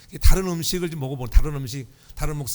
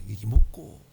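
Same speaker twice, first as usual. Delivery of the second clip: Gyeongsang dialect; 6 semitones lower, 3 dB louder, slower than usual. Retold or imitated. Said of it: "경상도 사투리로 그랬다".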